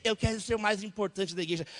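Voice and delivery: sing-song mock of a vain churchman; lightly sung mockery. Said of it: "O que que você quer ser?".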